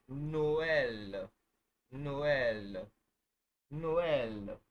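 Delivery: teacher drawing out Noel for learners; elongated Noel. Shown as a demonstration. Teacher to class, slow and stretched. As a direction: stretch Noel slow, two clear vowels no-el. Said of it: "double sign on E, it's elongated".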